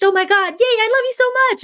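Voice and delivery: put-on squealing, very high and loud baby talk to the puppy; high-pitched doggy gush. Owner greeting her puppy in a high-pitched squeal. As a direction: gush over the dog like it's a baby, way up high and fast. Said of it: "your high-pitched".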